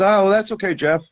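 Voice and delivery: light mock mother voice; imitating mom. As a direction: chirp it like his mother on the phone. Mom voiced answering the phone.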